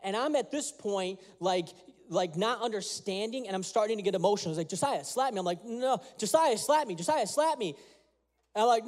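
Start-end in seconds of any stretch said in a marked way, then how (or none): 4.7-7.8 a hint of a stern father pressing, higher; stern dad. Father demanding his son slap him, sterner. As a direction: insist firmly, pushing harder. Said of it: "He's getting more stern".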